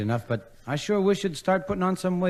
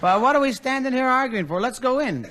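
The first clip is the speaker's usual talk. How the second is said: laughing; 10 semitones higher than usual. Real, not acted. Dean laughs through the line.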